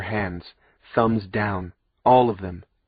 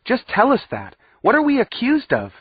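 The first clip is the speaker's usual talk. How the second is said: yelled; 13 semitones higher, 4 dB louder than usual. A narrator's reading. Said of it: "Wisty suddenly yelled at the judge".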